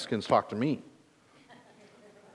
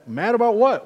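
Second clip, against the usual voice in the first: indignant surprise; 9 semitones higher, 5 dB louder than usual. Retold or imitated. Acted argument with his kids.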